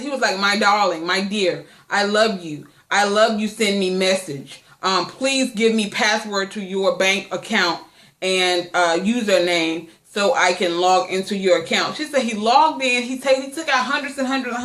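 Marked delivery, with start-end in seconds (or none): 0.4-12.0 mock sweet-talking scammer, pitched lower; a hint of a smooth con man, lower. Imitating the scammer writing to the woman, mock lower scammer voice. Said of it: "sounds exactly like that".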